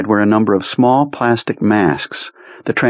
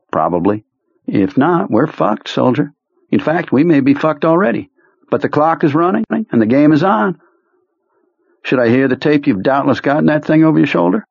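higher, wry commanding officer; a higher-pitched sardonic colonel; Kurtz voice; 9 semitones higher than usual. A narrator's reading. Kurtz speaks in character.

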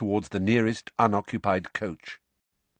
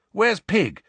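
put-on higher youthful boy voice; Ron's voice; 10 semitones higher, 3 dB louder than usual. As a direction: voice Ron, anxious. Ron calls out for his owl.

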